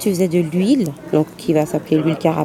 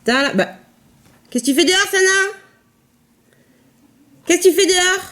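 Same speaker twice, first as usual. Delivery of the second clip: pet talk; 11 semitones higher than usual. Real, not acted. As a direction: coo at the animals like babies. Cooing to the pets outside.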